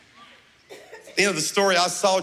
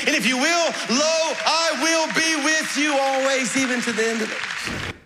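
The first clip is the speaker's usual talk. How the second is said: voice of God; 7 semitones higher than usual. Pretend. God speaking to his church.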